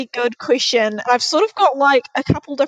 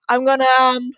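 badly faked Texan sheriff; bad Texan accent. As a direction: try on a Texan accent, unsurely. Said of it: "like, Texan accent".

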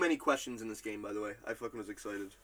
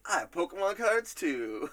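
higher, quicker mock outburst; imitated blurt; 6 semitones higher than usual. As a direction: blurt it out in one go, pitched up. Retells the surprising remark, quicker.

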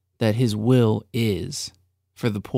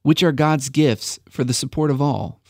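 slow careful reread; 2 semitones higher than usual. Shown as a demonstration. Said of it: "Let me try it one more time".

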